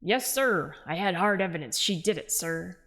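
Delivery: lightly growled Batman impression; a hint of gruff Batman. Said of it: "switch him to having Batman accent".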